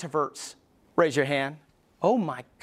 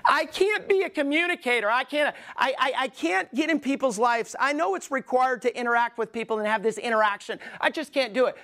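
higher, pleading mock-whine of a reluctant introvert; whiny introvert; 5 semitones higher than usual. Preacher mimicking a fearful introvert to the congregation, higher whiny pleading. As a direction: play the stammering person who insists they can't. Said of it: "people say".

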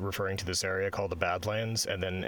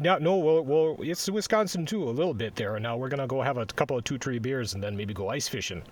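put-on Wisconsin accent; 4 semitones higher, 3 dB louder than usual. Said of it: "Your Wisconsin accent is different".

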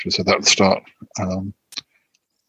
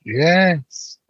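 excited dog talk; 10 semitones higher, slower than usual. Real, not acted. Talking to the big dog hopping on her, excited. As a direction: gush at a heavy bouncing dog.

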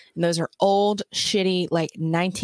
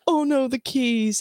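mock panicked sheriff; 6 semitones higher than usual. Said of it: "And he's like".

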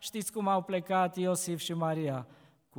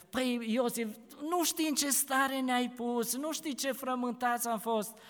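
higher, mildly anxious reproach; worried Mary; 5 semitones higher than usual. Acted. Mary tells the boy Jesus they were worried, anxious. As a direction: chide with relief and worry.

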